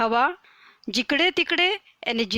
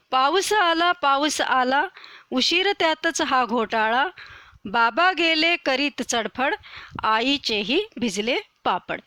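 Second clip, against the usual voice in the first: poem recitation. Acted. Teacher reciting the rain poem to her pupils, sing-song recital. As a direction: recite the verse brightly for the class.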